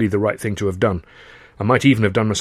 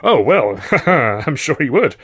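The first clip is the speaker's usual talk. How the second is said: smirking; 4 semitones higher, 4 dB louder than usual. Acted. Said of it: "Freddie smirked".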